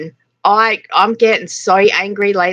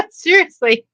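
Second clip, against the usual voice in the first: incredulous; 9 semitones higher than usual. Retold or imitated. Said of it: "we're like".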